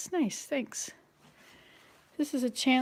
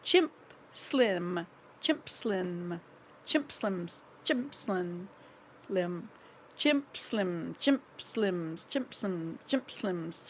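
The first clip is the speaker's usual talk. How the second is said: quick repeated chimp slim, tripping; tongue twister at speed; rapid tongue twister; 3 semitones lower, much slower than usual. Shown as a demonstration. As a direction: rattle off the tongue twister fast. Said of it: "See how many times you can say that".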